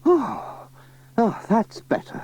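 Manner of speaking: high relieved oh; relieved sigh. Acted. Relief as the radio goes off, high voice.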